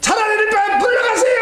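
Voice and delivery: 하나님께 화가 나서 외치는 기도; angry shouted prayer. Retold or imitated. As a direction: yell it up to heaven in exasperation, half laughing. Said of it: "너무 화가 나가지고".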